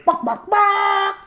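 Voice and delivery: high, slow squawking bark; chicken squawk. Retold or imitated. Chicken noise in book title.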